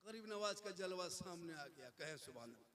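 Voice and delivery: soft hushed voice; hushed awe. Real, not acted. Preacher describing the saint's appearance, soft and hushed. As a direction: drop to a reverent hush.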